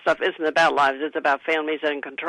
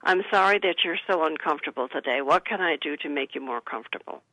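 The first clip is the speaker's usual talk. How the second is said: soft, calm and soothing, quieter toward the end; gentle caring reply; 3 semitones lower, 5 dB quieter than usual. Shown as a demonstration. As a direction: comfort an upset elder gently. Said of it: "the answer that you have to them is".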